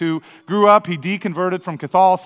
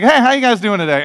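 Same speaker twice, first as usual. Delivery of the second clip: louder, cheery hail to a group; friendly call-out; 5 semitones higher, 5 dB louder than usual. Retold or imitated. Preacher retelling calling out to four disc golfers. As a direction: call over to them brightly.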